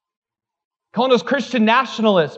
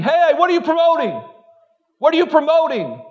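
mock screaming; 7 semitones higher than usual. Preacher mimicking everybody screaming at him, mock yell. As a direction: imitate a nagging crowd calling out, pitched way up. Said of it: "everybody's screaming at me".

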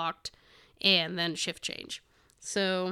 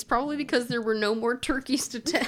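laughing; 3 semitones higher than usual. Real, not acted. Reading a funny fact aloud.

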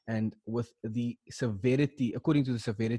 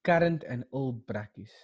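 slow mock-passionate declaration; sarcastic reading; 4 dB louder than usual. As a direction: overdo the passion until it sounds ironic. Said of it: "you're reading it sarcastically".

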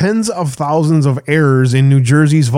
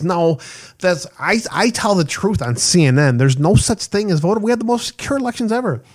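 higher-pitched mocking protest; 5 semitones higher than usual. Host parodying CNN's election denials, mock protest. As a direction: imitate an insistent denial, pitched up.

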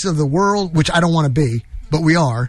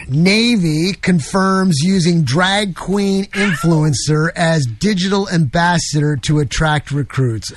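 slow, measured headline reading; slower than usual. Acted. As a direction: read it out slowly like a headline. Reads headlines aloud.

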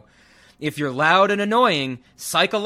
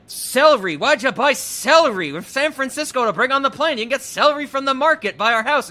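put-on higher and louder, a nagging old husband's complaint; mock complaining old man; 8 semitones higher, 6 dB louder than usual. Podcaster retelling the film's airport bickering scene, loud nagging mock complaint. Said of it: "And then Mel Brooks is like".

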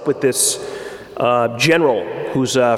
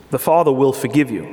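a lightly voiced plain, factual general; the general calmly assuring the commander, matter of fact. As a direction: state it simply, no drama. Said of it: "very matter of fact".

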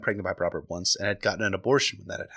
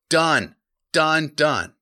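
"Done" punched higher and louder; emphatic done; 4 semitones higher, 5 dB louder, much slower than usual. Acted. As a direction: hammer "Done, done" like a verdict. Spelling out then repeating.

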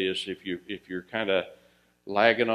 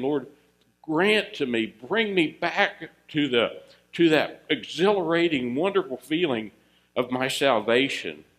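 earnest prayer; 4 semitones higher, 3 dB louder than usual. Pretend. Preacher voices a prayer.

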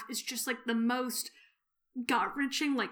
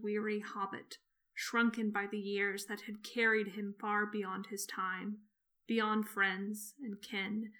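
story narration. Acted. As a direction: read it gently, letting it sink. Reads the Tolkien passage aloud.

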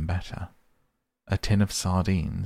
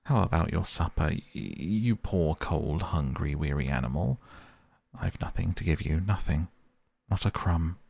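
moaning lament. Acted. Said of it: "he moaned".

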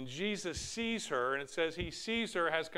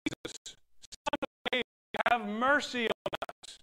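raised, pleading call to Jesus, higher pitch; 8 semitones higher, 6 dB louder than usual. Acted. Blind men calling out to Jesus, pleading call. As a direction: cry out for mercy from the roadside. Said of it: "two blind men called out".

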